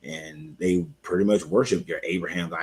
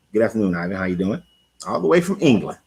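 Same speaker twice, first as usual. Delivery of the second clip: lightly put-on British accent, lifted at the end; playful British accent; 4 dB louder, faster than usual. Host greeting a viewer from England, mock British accent.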